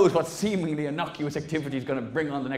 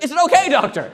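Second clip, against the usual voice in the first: much higher, louder worried plea; hammed-up expectant parent; mock anxious parent; 12 semitones higher, 10 dB louder than usual. Comedian asking the doctor at the scan, high mock-anxious plea. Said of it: "It's like".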